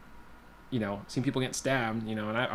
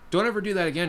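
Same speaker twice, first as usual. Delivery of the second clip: raised, higher-pitched mock yell; retold yelling; 8 semitones higher, 4 dB louder, faster than usual. Big drunk ex-con warns the teenager, mock yelling. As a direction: imitate an angry man telling someone off. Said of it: "He's, like, yelling at me".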